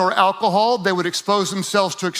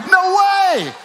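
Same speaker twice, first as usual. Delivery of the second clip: No way! thrown out high and loud in disbelief; shocked exclamation; 10 semitones higher, 4 dB louder than usual. Retold or imitated. Preacher acting out a runner's disbelief, loud and high. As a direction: cry out in total disbelief.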